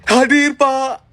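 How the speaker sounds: bright energetic "Hadir, Pak"; spirited roll call answer. Shown as a demonstration. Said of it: "jawab hadirnya kayak gue semangat gitu". (jawab "Hadir, Pak" dengan semangat)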